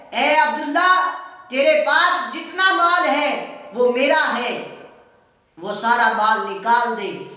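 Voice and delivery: high, loud enraged yell; angry shout. Retold or imitated. Uncle ordering his nephew to hand over everything, furious shout. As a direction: shout him out of the house, stripping him bare. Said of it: "غصے سے چیخ کے کہتا ہے".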